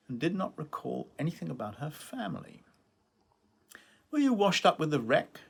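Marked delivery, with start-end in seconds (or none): 4.1-5.4 lightly voiced young woman, a bit higher; playful teasing question; Sunny's teasing voice. A narrator's reading. Narrator voicing Sunny teasing Edgar on the beach, light teasing. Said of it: "she had said".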